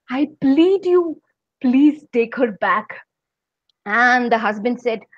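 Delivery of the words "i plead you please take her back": pleading. Acted. Devil begging husband.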